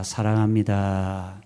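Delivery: slow, soft 사랑합니다 for your neighbour; tender "I love you". Shown as a demonstration. Pastor models it for the congregation, slow and tender. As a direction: say it gently and slowly, like you mean it. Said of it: "옆에 있는 분에게 이렇게 이야기해봅시다".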